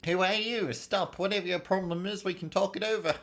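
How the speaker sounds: high, urgent pleading; alarmed plea. Acted. Master confronting an intruder, alarmed. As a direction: plead from up high to stop the trouble.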